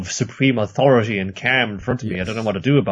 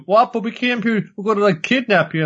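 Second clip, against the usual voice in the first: high, mock-baffled protest; squeaky mock protest; confused henchmen; 10 semitones higher than usual. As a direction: play the henchmen as dim and whiny.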